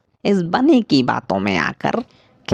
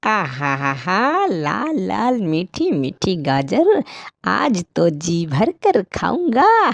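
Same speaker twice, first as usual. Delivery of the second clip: greedy delight; 4 semitones higher than usual. Acted. Crow gloats over juicy carrots.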